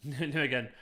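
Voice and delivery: "Nijmegen" as NIM-uh-gen; trying a pronunciation. Shown as a demonstration. Streamer stumbling over a Dutch name, "Nijmegen" as NIM-uh-gen. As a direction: say "Nijmegen" with a hard g. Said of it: "Is that how you pronounce it?".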